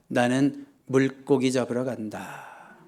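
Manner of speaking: low, slow resigned announcement; drawn-out, downbeat mutter; dejected tone. Acted. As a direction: say it slowly and quietly, with no enthusiasm. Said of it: "좋은 톤이 아닙니다".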